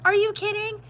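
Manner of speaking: incredulous mock outrage. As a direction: pitch jumps way up, loud and disbelieving. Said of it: "And she's like".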